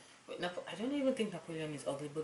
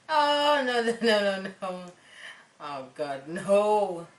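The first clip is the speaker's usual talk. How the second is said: dismayed protest; 3 semitones higher, 7 dB louder, slower than usual. Real, not acted. Dismayed reaction to the cheating wife.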